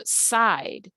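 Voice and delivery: "side" with a long, stretched vowel; stretched I sound. Shown as a demonstration. Teacher isolating the second syllable, "side" stretched. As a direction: draw out the I in "side". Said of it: "The I sound stretches".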